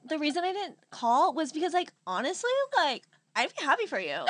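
lightly mimicked drunken sincerity; mildly mock a tipsy friend being honest; a touch of drunk earnestness; imitated drunk friend. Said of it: "so funny how you talk when you're drunk".

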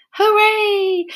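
high, happy storybook cheer; joyful cry of relief. A narrator's reading. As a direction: celebrate like rescued little fish. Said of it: "cheered the fish".

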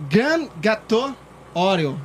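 slow, careful French-style dessert name; attempted French pronunciation. Real, not acted. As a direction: say GRAN GÂTEAU slowly with a French lilt. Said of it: "Tá aprendendo a falar francês".

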